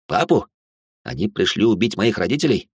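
ordinary delivery

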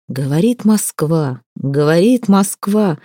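slow, solemn radio announcer; booming solemn state announcer. Acted. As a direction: ring it out like Levitan on air. Radio announcement quoted in story.

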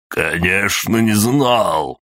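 rising to a shout on the last words; angry outburst. Acted. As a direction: burst out in fury. King enraged at news.

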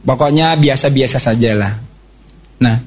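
normal talking voice

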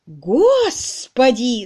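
изумлённый возглас; astonished cry. A narrator's reading. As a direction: stretch it out in shock. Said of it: "закричала миссис Рудл".

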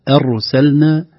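أرسلنا starting on a thin, front vowel; light hamza. Shown as a demonstration. Teacher illustrates first of three cautions, light hamza. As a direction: open أرسلنا lightly, close to "er". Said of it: "ترقيق الهمزة".

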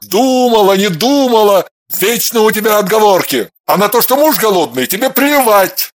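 mock her excuse then snarl; angry scolding. A narrator's reading.

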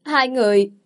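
startled outcry at the couple; loud cry. A narrator's reading. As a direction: blurt it out in alarm. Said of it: "liền la lớn lên".

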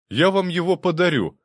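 loud, high excited offer. A narrator's reading. Prince excitedly offering the house as a gift. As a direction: burst out with the generous idea.

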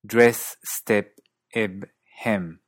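DRESS, STEP, EB, HEM with closer Antipodean vowel, toward 'ih'; Australian-New Zealand dress, step, eb, hem, E nearing short I; Australian-New Zealand accent. Shown as a demonstration. Teacher listing examples, Australian-New Zealand closed E. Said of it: "esta vocal se hace algo más cerrada".

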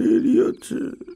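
slow, slurred, half asleep; slurred sleepy voice. A narrator's reading. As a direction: mumble it still asleep. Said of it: "আগের মতো জড়ানো গলায়".

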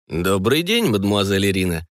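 level, courteous officer's hello; polite greeting. Acted. Colonel politely greeting his daughter's guardian, lightly voiced courtesy. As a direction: greet her correctly, an officer's manners. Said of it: "вежливо ответил".

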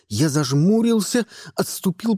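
usual speaking voice

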